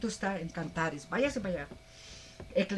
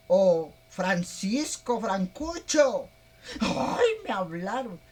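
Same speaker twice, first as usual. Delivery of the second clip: slow, loud cry of alarm; shocked woman; 3 dB louder, slower than usual. Pretend. Margarita cries for Francisco after the idol speaks, startled and loud. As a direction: call out for her husband in fright.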